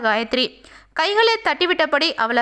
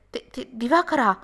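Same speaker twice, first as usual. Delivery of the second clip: shocked stammer; 3 dB quieter, slower than usual. A narrator's reading. Caught lie, stammering in shock.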